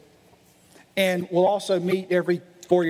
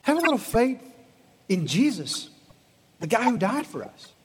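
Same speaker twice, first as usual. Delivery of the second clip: gentle reassurance. Retold or imitated. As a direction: coax them gently to trust. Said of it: "He'd say".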